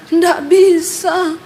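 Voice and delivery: slow, drawn-out struggle to speak; mouth held shut. Retold or imitated. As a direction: imitate a possessed man unable to speak. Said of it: "ditahan sama iblis mulutnya". (tiruan suara tertahan, diseret pelan)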